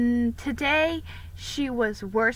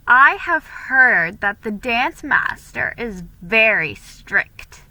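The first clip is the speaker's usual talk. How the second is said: a hint of a gossiping girl, louder; gossiping girl prattling; 6 dB louder, slower than usual. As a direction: gossip to unsettle Felicity. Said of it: "She prattled on".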